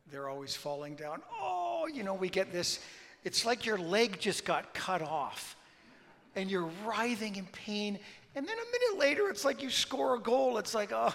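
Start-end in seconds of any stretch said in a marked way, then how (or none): 1.3-11.1 high, loud, hammed-up Italian drama; loud mock-Italian theatrics; dramatic Italian. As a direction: overplay it like a diving footballer. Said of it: "how dramatic they are".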